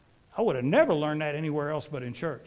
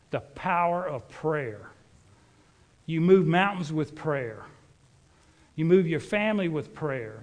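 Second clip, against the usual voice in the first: preaching. Acted. Preacher urging the congregation to pray, building emphasis. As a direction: drive each "with prayer" home to the congregation.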